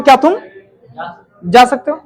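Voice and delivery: "क्या तुम" clipped off, a pause, then "जा सकते हो?" rising as a dare; challenging question. Shown as a demonstration. Teacher shows the class a doubting, challenging way to ask. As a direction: question whether they can even manage it. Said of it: "मैं जब ऐसे बोल रहा हूं".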